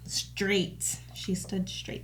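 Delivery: whispered. Pretend. Mimicking stiff Russian Supergirl.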